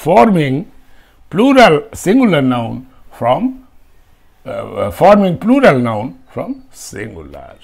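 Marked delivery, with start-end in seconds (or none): 1.3-7.6 slow dictation. Shown as a demonstration. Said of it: "dictating rule title".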